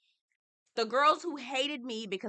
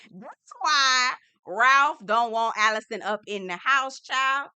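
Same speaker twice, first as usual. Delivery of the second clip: laughing; 8 dB louder, slower than usual. Real, not acted. Laughing retelling of realization.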